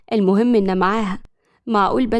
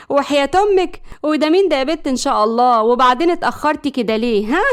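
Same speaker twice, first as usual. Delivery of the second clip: mild sharp interrogation from a mother; indignant motherly questioning; scolding mother; 3 semitones higher than usual. Acted. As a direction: take your late daughter to task. Mother scolds late daughter.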